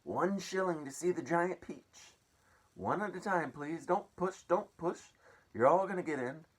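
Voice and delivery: high, loud bossy yell at the crowd; greedy aunt yelling. Acted. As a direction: herd the pushing crowd at full volume. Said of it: "Aunt Spiker yelled".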